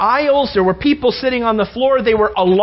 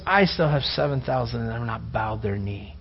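God's answer; 11 semitones lower, 8 dB quieter than usual. Retold or imitated. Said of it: "And the Lord goes".

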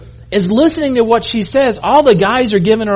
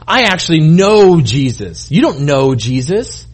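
smug disciple; 3 semitones lower, slower than usual. Acted. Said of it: "typical men, we're like".

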